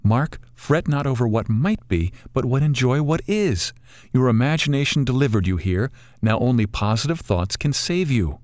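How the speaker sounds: put-on a kindly old bird coaxing them to enjoy it; wise old bird.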